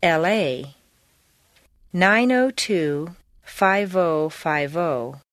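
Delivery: L A and FIVE OH slowly run together; NINE OH TWO drawn out as one connected word; linked letters and numbers. Shown as a demonstration. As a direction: glide from L into A, from FIVE into OH. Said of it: "use liaisons in spelling and numbers".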